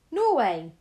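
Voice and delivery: loud triumphant guess; excited cry. Acted. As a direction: shout the answer out. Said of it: "I cried".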